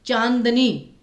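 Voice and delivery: चांदनी said slowly with a full n through the nose; drawn out, lean on the n in चांदनी; clear n sound. Shown as a demonstration. Teacher demonstrating चांदनी for students, n sounded through nose. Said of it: "चांदनी में न पे focus आया".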